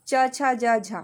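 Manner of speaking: teacher says "च, छ, ज, झ" one by one, each sound set apart; demonstrating affricates. Shown as a demonstration. Teacher demonstrates "च, छ, ज, झ" to the class, separated clearly. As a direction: sound out "च, छ, ज, झ" clearly with small pauses. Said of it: "अगर हम इनको जल्दी से रिपीट करना चाहेंगे".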